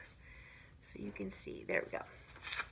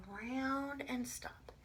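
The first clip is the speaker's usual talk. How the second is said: slow tracing words; 3 semitones higher than usual. Shown as a demonstration. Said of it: "Just like this".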